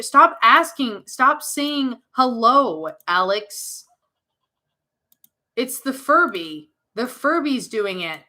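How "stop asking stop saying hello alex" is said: put-on annoyed child. Child annoyed at talking Furby.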